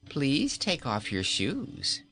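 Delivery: slow, sweetly cruel order; mock-polite command. Queen orders king to remove shoes, slow mock politeness. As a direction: order him gently, enjoying it.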